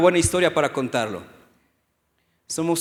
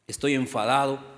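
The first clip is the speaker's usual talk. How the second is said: softer, level confession; calm honest admission; 6 semitones lower, 6 dB quieter than usual. Shown as a demonstration. Pastor tells God calmly he is upset. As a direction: tell God you're upset, quietly. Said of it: "yo le he dicho a veces al Señor".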